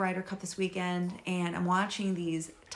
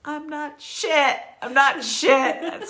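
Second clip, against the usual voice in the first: panicked self-talk; 7 semitones higher, 7 dB louder, slower than usual. Retold or imitated. Panicked self-talk watching golfers.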